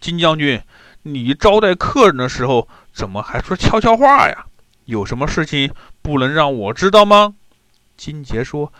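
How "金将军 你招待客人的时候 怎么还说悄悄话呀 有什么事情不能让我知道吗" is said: angry question. Acted. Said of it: "生气地问".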